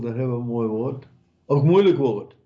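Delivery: ordinary delivery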